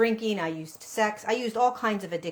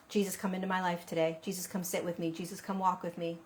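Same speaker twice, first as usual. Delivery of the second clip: quiet prayer; 8 dB quieter than usual. Shown as a demonstration.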